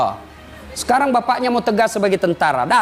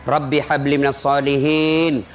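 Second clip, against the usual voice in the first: put-on tender prayer to child; 5 semitones lower, slower than usual. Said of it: "usap-usap rambutnya".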